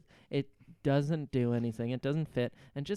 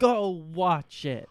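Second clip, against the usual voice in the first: mock angry repeat; 3 semitones higher, 7 dB louder, much slower than usual. Repeating Jack's angry line.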